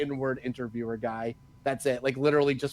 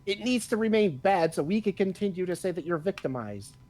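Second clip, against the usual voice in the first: mocking scold; 6 semitones higher than usual. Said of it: "the people started being like".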